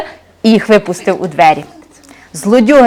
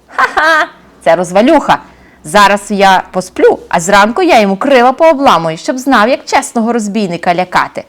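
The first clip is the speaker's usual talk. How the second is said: грубувато й зневажливо, з реготом; глузуй, як самовпевнений бандит; зухвалий розбійник; 2 semitones higher than usual. Acted. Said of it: "і зареготався". (розбійник насміхається з млина)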